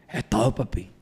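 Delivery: lightly put-on friend's voice; a touch of mimicry on a catchphrase; Jaimón. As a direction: demonstrate how your buddy talks. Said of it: "te voy a decir cómo habla".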